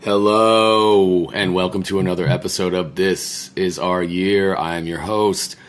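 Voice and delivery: hoarse sick voice; croaky from a cold; frog voice. Real, not acted. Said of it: "I sound like a frog".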